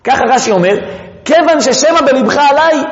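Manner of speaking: ordinary talk, nothing marked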